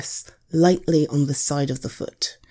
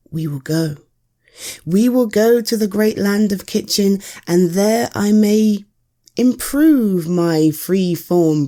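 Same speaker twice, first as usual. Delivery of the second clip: determined princess; 2 semitones higher, 4 dB louder than usual. Acted. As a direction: swear it like a brave princess. Princess vows to win.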